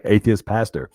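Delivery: "pastor" said with an American short A; American accent. Shown as a demonstration. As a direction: put on American pronunciation for "pastor". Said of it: "I should say that in an American accent".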